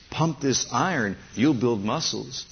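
God as coach. Acted. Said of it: "God says".

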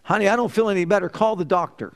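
lightly voiced lady calling to her partner; retold woman's quick complaint. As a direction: toss it off as a quick retold remark. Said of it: "turned around and she said".

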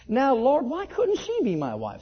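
retold cry to heaven, high and loud at first; crying out to God. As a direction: call up to the Lord, pitched high. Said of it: "Same thing again".

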